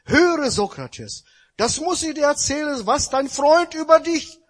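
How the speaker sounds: a worked-up youth who can't wait to tell; excited young man. Acted. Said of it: "ganz aufgeregt kam einer zum weisen Sokrates gelaufen".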